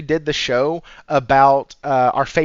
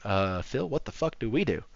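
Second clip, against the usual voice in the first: panicked Xbox exec; 5 semitones lower, 10 dB quieter than usual. Retold or imitated. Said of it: "sitting there going".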